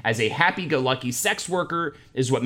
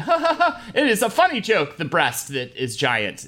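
fake awkward laugh; 5 semitones higher than usual. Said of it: "I just sat there and was like".

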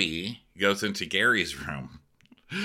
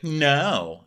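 higher, stubborn retold no; mock defiant refusal; 8 semitones higher, 4 dB louder than usual. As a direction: dig in with a put-on refusal. Acting his defiant refusal.

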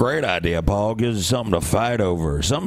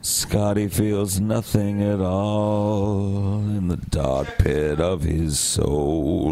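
ominous narrator; 2 semitones lower, much slower than usual. Pretend. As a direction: intone it like a grim narrator. Dramatic ominous narration joke.

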